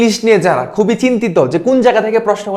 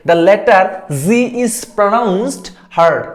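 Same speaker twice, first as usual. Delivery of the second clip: slow read of question; much slower than usual. Shown as a demonstration. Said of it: "এখানে প্রশ্নটা হচ্ছে".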